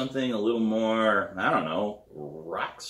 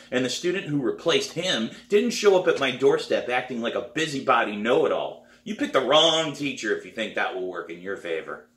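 higher, louder stern teacher lecturing; 5 semitones higher, 3 dB louder than usual. Acted. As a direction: put the cocky kid in her place. Pete lectures the bragging girl.

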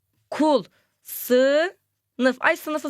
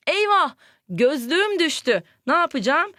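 dismayed gasp; 4 semitones higher than usual. Shown as a demonstration. Teacher acts out exclamation example.

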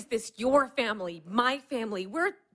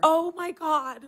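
slow, stunned half-laugh of disbelief; disbelieving laugh; 5 semitones higher than usual. Acted. Daughter hears her mother has a lover, laughing in disbelief. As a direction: laugh out the shock, slowly.

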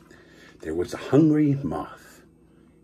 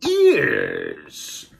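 villain voice; 2 semitones higher than usual. Acted. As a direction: sneer out the threat. Villain threatens librarian.

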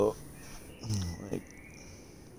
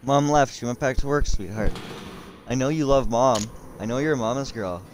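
higher-pitched pet-parent voice; talking to the dog; 5 semitones higher than usual. Real, not acted. Streamer to his dog after Mom left for work, higher-pitched consoling.

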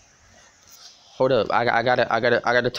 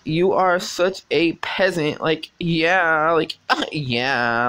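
mock snooty; 2 semitones higher, much slower than usual. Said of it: "I gotta fucking roleplay this shit".

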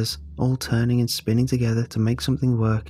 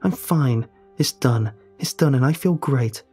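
defiant bravado; 5 semitones higher than usual. Acted. Ellie defending her choice to the narrator, defiant. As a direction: insist you're fine too hard.

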